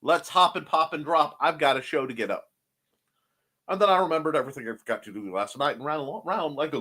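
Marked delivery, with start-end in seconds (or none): 0.0-2.5 excited whoop. Retold or imitated. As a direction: cheer yourself out of bed. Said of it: "and I went".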